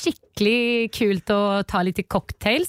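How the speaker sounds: slow put-on Norwegian accent; drawn-out Norwegian date introduction. Shown as a demonstration. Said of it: "presentera dig som du presenterar dig för honom".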